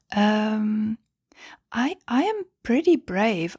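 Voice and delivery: hushed and faltering; shy hesitation. Acted. Shy Bunny answers Stella with a timid hush. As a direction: stammer it out, unsure.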